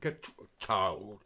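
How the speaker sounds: low put-on Irish accent. Shown as a demonstration. Showing off on request, put-on Irish accent. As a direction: try out an Irish accent on short words. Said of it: "Can you do your Irish accent?".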